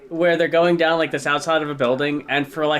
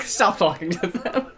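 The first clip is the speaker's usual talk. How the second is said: laughing; 2 semitones higher than usual. Retold or imitated. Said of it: "the teacher was like".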